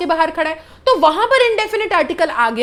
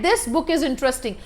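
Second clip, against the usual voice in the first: very slow, quieter example read; slow dictation; 4 dB quieter, much slower than usual. Shown as a demonstration. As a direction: read it out word by word for students. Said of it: "सबसे पहले example है".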